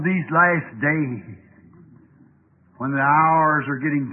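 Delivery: measured prayer with long pauses; earnest prayer. Real, not acted. Preacher praying aloud to God for his congregation, pleading solemnly. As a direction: plead with God for the people, unhurried.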